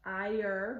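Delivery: "Ire" as a vowel, then a clear er; vocalic R demo. Shown as a demonstration. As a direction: stretch "Ire" into its final R. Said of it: "we've got a vowel and then er".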